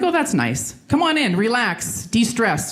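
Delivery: high, airy mock-soothing voice; mock pleased. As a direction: coo it high, drawing out the relaxing words. Acting out reaction to assigned spot.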